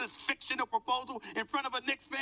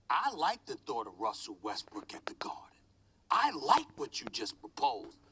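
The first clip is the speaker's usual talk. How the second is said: hushed approval; 10 semitones lower than usual. Real, not acted. Pundit telling colleague he likes the trade, in a low hush. Pundit savouring proposal after his rant.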